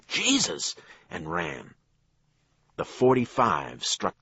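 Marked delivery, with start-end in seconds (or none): 0.1-0.7 scream. A narrator's reading. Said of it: "scrabbled to his feet and screamed".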